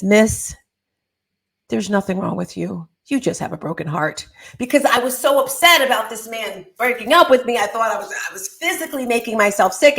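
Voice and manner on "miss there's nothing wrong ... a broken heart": gentle nurse. Retold or imitated. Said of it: "she looks at me so gently".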